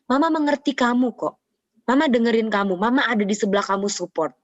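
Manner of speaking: lightly acted placating mother; mama voice. Mother assuring her child of support, lightly acted mama voice. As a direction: start high as mum, then ease down. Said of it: "kita sebagai orang tua sering kayak gini".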